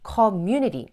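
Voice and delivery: "community" slowly, with MU punched; light first syllable, strong MU in "community"; stress on MU. Shown as a demonstration. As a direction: hit the second syllable of "community". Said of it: "뒤로 강세가 가거든요".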